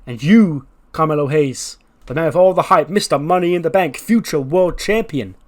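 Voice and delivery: mock Cena promo voice; imitating Cena. Acting out Cena's promo.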